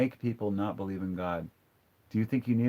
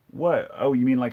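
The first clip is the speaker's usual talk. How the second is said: incredulous; 2 semitones higher, 7 dB louder than usual. Real, not acted. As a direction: throw the comment back in disbelief. Mock disbelief at a comment.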